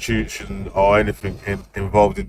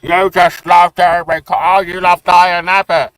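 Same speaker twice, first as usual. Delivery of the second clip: mocking friends; 5 semitones higher than usual. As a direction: ham up the accusers' taunts.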